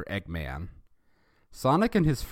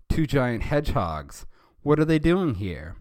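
higher, louder startled shouting; alarmed kids; 7 semitones higher, 7 dB louder than usual. Acted. Schoolkids spotting giant hedgehogs, shouting in alarm. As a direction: panicky kids pointing and yelling. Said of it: "the kids were all saying".

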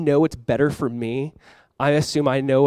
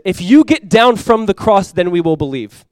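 slow, raised-pitch taunt, easing at the end; imitated mocking crowd; 4 semitones higher, 5 dB louder, slower than usual. Preacher voicing the crowd challenging Jesus, mocking. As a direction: act out a crowd's drawn-out challenge. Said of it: "the crowd is mocking Jesus".

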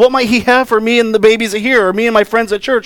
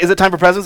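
"time" leaned on, rising at the end; repeated eager question; faster than usual. Retold or imitated. As a child asking parents for presents, questioning lift on "time". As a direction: ask with a lift after "time". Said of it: "Maybe there's a different way I say it".

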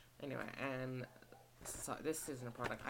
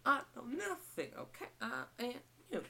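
high, loud, exasperated voice; high mock whine; 12 semitones higher, 4 dB louder than usual. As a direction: whine it out sarcastically. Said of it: "I'm like".

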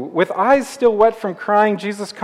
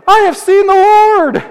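much higher and louder, bursting with joy; excited shout; 13 semitones higher, 8 dB louder than usual. Acted. Mary running to tell the world, shouting with joy. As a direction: cry it out like you can't contain it. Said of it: "start shouting weird things like".

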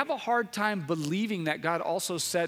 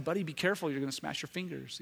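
gentle warning to son; 5 dB quieter, faster than usual. Retold or imitated. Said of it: "I'd tell him all the time".

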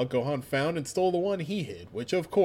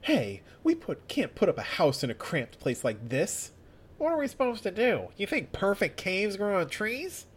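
whiny complaining voice; 5 semitones higher than usual. Acted. Bulma complaining.

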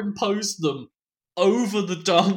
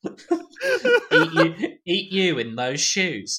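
camp Hannibal Lecter; much slower than usual. Retold or imitated. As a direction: purr it like a flamboyant cannibal. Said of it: "Hannibal Lecter being played by Julian Clary".

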